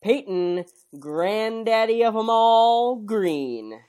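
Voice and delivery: a lightly hammed-up wrestling ring announcer intro. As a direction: announce the hosts like it's fight night.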